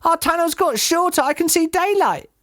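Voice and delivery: high, urgent little cub voice; small fox. A narrator's reading. Small fox warns the family about the tunnel, piping up. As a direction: pipe up high in alarm. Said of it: "said one of the small foxes".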